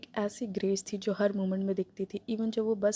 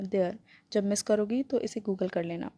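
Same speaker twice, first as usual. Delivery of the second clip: teasing; slower than usual. Acted. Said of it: "Kylian ने tease किया".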